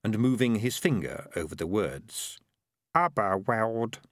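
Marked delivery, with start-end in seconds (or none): 3.0-4.0 slow, careful reading aloud; halting read-aloud of "Aberwald"; sounding out a word. A narrator's reading. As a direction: read the unfamiliar name "Aberwald" slowly, sounding it out. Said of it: "he read aloud".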